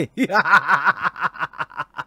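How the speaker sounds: short embarrassed laugh; real laugh. Real, not acted. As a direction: laugh off the compliment. Laughs at compliment.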